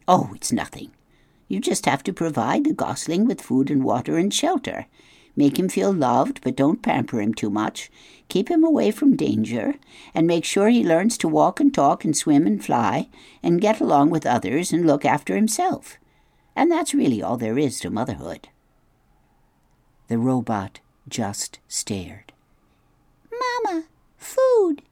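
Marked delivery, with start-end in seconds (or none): 0.1-18.5 lightly voiced brisk goose, matter-of-fact; a hint of a know-it-all goose; old goose giving advice. Goose advises the robot. 23.3-24.8 high, crying chick calling for mama; tiny whimpering peep; crying gosling peep. Acted. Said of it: "said the gosling".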